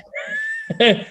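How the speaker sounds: a short, high burst of laughter at his own joke; real laugh. Real, not acted.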